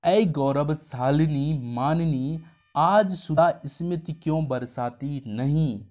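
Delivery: slow, drawn-out flattering recital; slow tender coaxing verse; sweet-talking lover. Retold or imitated. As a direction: woo her slowly, savouring each word. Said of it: "इस तरीके से प्रेमी बोलता है".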